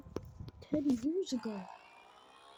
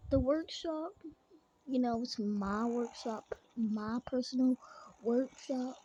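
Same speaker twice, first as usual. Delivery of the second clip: lightly put-on Kentucky accent. Vlogger showing off his truck to viewers in a light Kentucky accent. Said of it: "how am I doing the Kentucky accent?".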